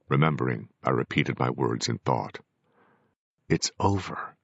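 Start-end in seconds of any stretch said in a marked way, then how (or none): 3.5-4.3 tense, clenched-jaw line; through clenched teeth. A narrator's reading. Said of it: "through clenching teeth".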